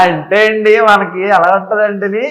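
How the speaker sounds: comic. Shown as a demonstration. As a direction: laugh through it and stretch the words. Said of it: "చాలా ఫన్నీగా, హాస్యం".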